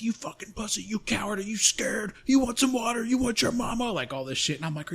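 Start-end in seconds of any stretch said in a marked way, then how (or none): 0.0-3.9 high-pitched drill instructor berating a recruit; training instructor. Retold or imitated. Instructor taunts a sick recruit, high-pitched berating. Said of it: "this f-, training instructor".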